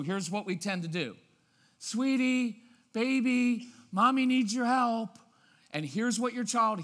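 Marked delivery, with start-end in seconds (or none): 1.8-5.2 high, loud, syrupy singsong; sing-songy mommy. Acted. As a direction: coax a child in an exaggerated sweet mommy voice. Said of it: "this sing-songy mommy tone".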